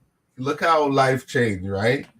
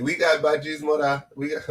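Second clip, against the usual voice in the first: movie quote. Retold or imitated. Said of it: "What movie was that?".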